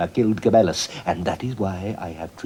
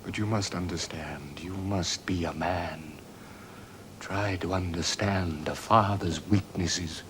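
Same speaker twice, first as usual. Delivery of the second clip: slow, softer plea; soft pleading; 2 semitones lower, 7 dB quieter, slower than usual. Acted. Father to his son, soft slow pleading. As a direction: ask gently for his understanding, slowly.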